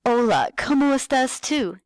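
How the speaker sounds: high, bright singsong teacher voice; kindergarten teacher voice. Shown as a demonstration. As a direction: talk like you're greeting small kids. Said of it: "talk to them like you're a kindergarten teacher".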